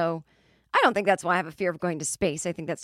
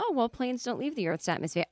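higher, soft, patient pilot voice; gentle correction; 6 semitones higher, 3 dB quieter than usual. Retold or imitated. Pilot gently correcting the scared passenger. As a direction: correct her kindly, like calming a child. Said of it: "a pilot gently corrects her".

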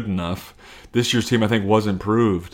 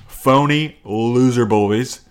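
slow taunt; 3 semitones higher, 3 dB louder, much slower than usual. Real, not acted. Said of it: "worst thing I've ever said".

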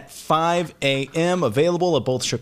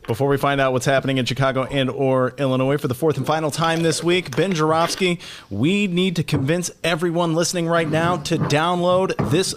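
choking on water mid-read; sputtering from water down the wrong way; coughing up water. Real, not acted. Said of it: "not good podcasting".

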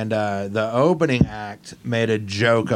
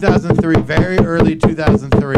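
louder, booming into the mic; 3 semitones higher, 4 dB louder than usual. Pretend. Pretending to drown out the chat with a loud mic voice. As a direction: hog the conversation with volume. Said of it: "Here's what it sounds like".

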